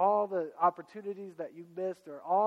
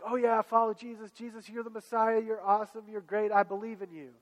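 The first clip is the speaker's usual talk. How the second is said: eager disciple; 4 semitones higher, 4 dB louder than usual. Retold or imitated. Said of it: "he's like".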